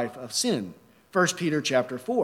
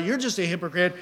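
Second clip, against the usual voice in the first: normal talking voice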